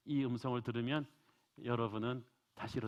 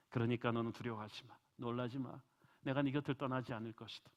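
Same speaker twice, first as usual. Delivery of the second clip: tender words of God. Acted. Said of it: "하나님은 야곱에게 말씀하신 거예요".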